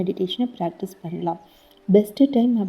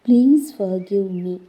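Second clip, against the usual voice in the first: guided meditation. Acted. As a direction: gently guide the listener through the body, slowing on each thank-you. Leads a guided healing meditation. (மெதுவான, மென்மையான தியான வழிகாட்டும் குரல்)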